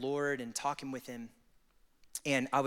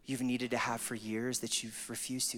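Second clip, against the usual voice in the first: a hint of a tender father; gentle invitation. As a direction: coax them tenderly forward. Voicing God's gentle invitation.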